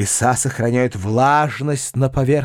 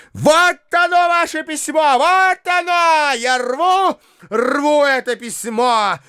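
frenzied ranting; 11 semitones higher than usual. A narrator's reading. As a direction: rage and spit on the letter. Foma tearing and spitting on letter.

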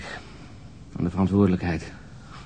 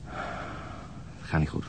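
weary whisper; 5 semitones lower, 12 dB quieter, much slower than usual. Acted. Exhausted detective confiding in colleague.

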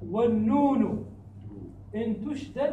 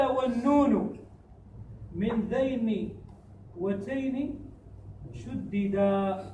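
slow, drawn-out chanted verse; verse recitation; much slower than usual. Shown as a demonstration. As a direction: recite each word of the line slowly. Teacher recites next verse.

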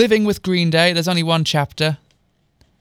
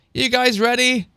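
higher-pitched gentle mum call; softer calling voice; 7 semitones higher than usual. A narrator's reading. Mum checks on the girls from the steps, gently calling. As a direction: call up lightly, without extra volume. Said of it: "called a softer voice from the steps".

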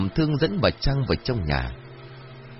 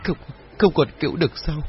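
stammering disbelief; 5 semitones higher than usual. A narrator's reading. Mrs Trang refuses the news, stammering in panic. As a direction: repeat the no in rising panic. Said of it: "bà Trang liền lắp bắp".

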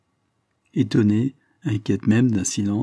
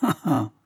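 high, scornful "ha, ha"; short burst of mocking, bitter laughter; bitter ironic laugh; 7 semitones higher than usual. A narrator's reading. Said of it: "Un éclat de rire plein d'ironie et d'amertume".

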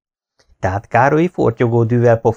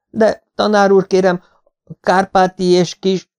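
high, loud eager protest; crying out; 10 semitones higher, 3 dB louder than usual. Acted. Pupil crying out to the teacher, high loud protest. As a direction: call out to the teacher, hand up. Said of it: "felkiáltok".

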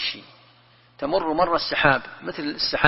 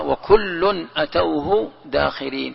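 Quran recitation; much slower than usual. Acted. Quran verse recited slowly.

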